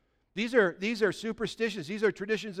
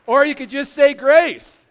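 mock exasperated punchline; 8 semitones higher, 13 dB louder, slower than usual. Punchline after long list, shouted.

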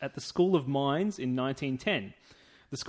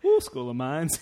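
mock Liverpool accent; 5 dB louder, slower than usual. Joining in with the cohost's bit, mock Liverpool accent. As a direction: parody his Scouse accent. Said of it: "give us some more Liverpool accent".

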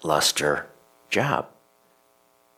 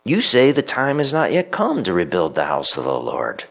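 raised, challenging prophet voice; prophet's challenge. Retold or imitated. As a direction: confront them as the prophet. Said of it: "asked a brilliant question".

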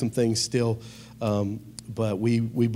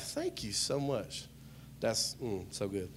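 mock savoring; 4 semitones lower, 13 dB quieter than usual. Acting out a Waffle House meal.

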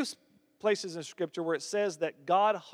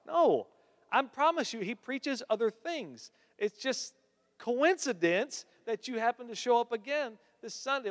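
higher-pitched, pleading daughter denying it; protesting daughter; 7 semitones higher than usual. Retold or imitated. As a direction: insist you didn't do it, voice pushed up. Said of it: "She's like".

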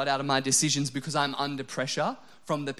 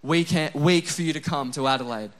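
louder, hammed-up proclamation to Jerry; telling Jerry this heatwave is historic, mock-grand and loud; mock-grand teasing; 5 dB louder than usual. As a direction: tease him like it's history being made. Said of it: "I just thought".

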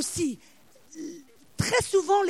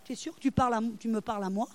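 small, low, hesitant question; acted timid fear; 4 semitones lower, 6 dB quieter, faster than usual. Scared Gideon in the vat answering the angel, timid and soft. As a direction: shrink back and ask softly. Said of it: "la trouille".

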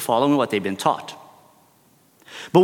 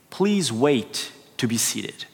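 slow, flat official notice read aloud; mock host reciting the sign; 3 semitones lower, 4 dB quieter, slower than usual. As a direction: deliver it like a bored host reading a sign. Mimicking the restaurant sign.

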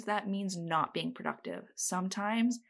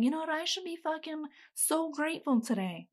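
mock self-talk; 7 semitones higher than usual.

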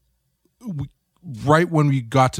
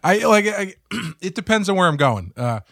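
coughing fit; 8 semitones higher than usual. Real, not acted. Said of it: "I'm coughing a lot tonight".

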